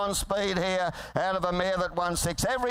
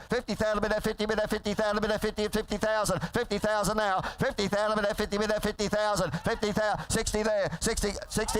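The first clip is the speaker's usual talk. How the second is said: rapid rolling auctioneer chant; frantic trading floor shouting. Real, not acted. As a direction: rattle off the bids like an auctioneer. Auctioneer calling bids.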